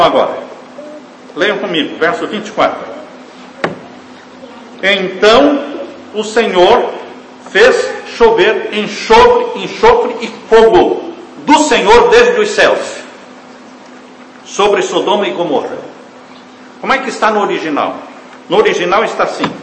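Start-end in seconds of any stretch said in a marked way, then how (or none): 4.8-15.8 slow, loud proclaiming of the verse; emphatic scripture reading. Acted. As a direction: declaim each word of judgment. Preacher reads verse aloud. (leitura solene e enfática)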